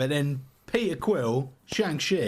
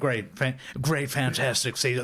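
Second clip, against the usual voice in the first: badly faked presidential boasting; half-hearted politician impression; Donald Trump. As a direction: repetitive superlatives in a weak impression. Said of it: "I can't do a Trump accent for shit".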